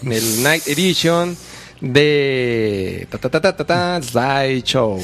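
rattling off prices like a street vendor; quick Mexico City market hawker patter; singsong market price calls. Retold or imitated. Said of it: "el marchante de, de Tepito".

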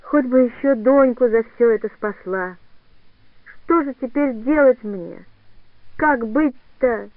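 slow, drawn-out longing; anguished. Acted. Katya asks the old woman what to do, slow and forlorn. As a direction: let the question hang in despair. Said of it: "Катя тоскливо произнесла".

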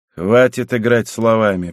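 plain reading voice

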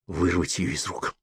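usual speaking voice

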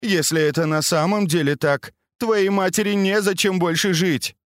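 a daughter calmly breaking bad news; young woman voice. Baochai speaks to her mother.

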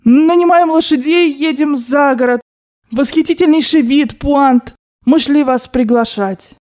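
high, loud, dragged-out plea; trembling desperation. A narrator's reading. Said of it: "Голос у него дрожал и падал".

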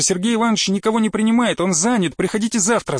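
lightly voiced flustered secretary; protesting secretary. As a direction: fend off the intruder in a hurry. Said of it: "крикнула, преградила ему дорогу".

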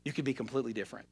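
voiced softly, slowing down, as God; God speaking tenderly. God inviting a struggling believer to let go, tender. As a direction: imitate God coaxing gently, with long pauses. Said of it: "But God says".

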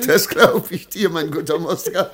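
gloating with delight; gleeful chuckle. Acted. Merchant to servant, chuckling over the scheme.

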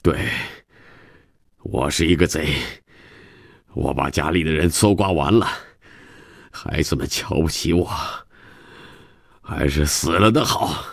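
subdued self-cursing in halting phrases; self-reproach. Acted. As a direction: berate yourself, pausing between phrases. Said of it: "开始骂自己了". (自责地骂自己)

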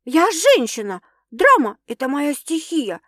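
loud, high snapping retort; barked. A narrator's reading. Sasha snapping at Stas for calling her dramatic, barking. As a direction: bark it back at him. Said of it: "рявкнула девушка".

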